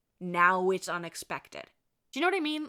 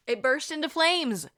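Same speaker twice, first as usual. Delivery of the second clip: higher, louder shocked repeat; dramatic exclamation; 8 semitones higher, 7 dB louder than usual. Shown as a demonstration. Storyteller repeats the toy catching fire, loud and incredulous. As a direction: punch it up as a big reveal.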